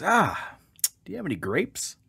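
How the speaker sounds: high, innocent little duck asking. Acted. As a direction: play the clueless duck. Duck asks again.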